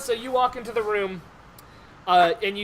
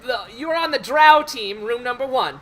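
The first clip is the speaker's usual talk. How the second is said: lightly voiced team announcer; 3 semitones higher than usual. Game master voices an official assigning teams.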